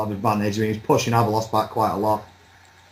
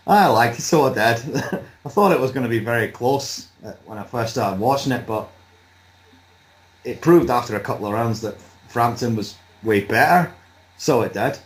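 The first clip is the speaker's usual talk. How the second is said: attempted Northern Irish accent. Guest gives his fight verdict on request, attempted Irish accent. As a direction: have a giggly go at Northern Irish. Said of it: "I can't think of what to say and do the accent".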